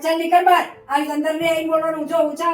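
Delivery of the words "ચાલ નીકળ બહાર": angry order. Acted. Mother throwing creditor out.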